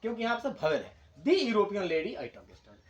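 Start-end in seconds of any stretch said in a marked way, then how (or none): 1.2-2.8 very slow, every word laid out; slow model sentence. Shown as a demonstration. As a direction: dictate the full sentence slowly. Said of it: "the कहेंगे इसको". (पूरा वाक्य बहुत धीरे-धीरे)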